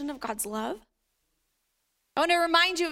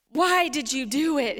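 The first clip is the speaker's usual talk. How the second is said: a hint of scolding parent; lightly voiced parent. Parent to a child in trouble, mildly reproachful. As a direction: repeat it like a reproachful parent, usual pitch. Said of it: "heard that from your parents".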